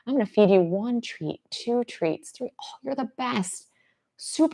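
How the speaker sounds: high, soft, delighted praise; high-pitched doting dog talk; gushing dog praise. Acted. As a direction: gush to your dog in a high voice.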